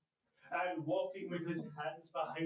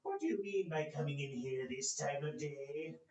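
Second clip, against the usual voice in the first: feigned growl; 3 semitones lower than usual. Acted. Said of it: "growled Scrooge in his accustomed voice".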